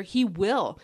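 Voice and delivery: WILL firmly emphasized; a firm, certain WILL; stress on WILL. Real, not acted. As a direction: land squarely on "will". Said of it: "put some emphasis on will".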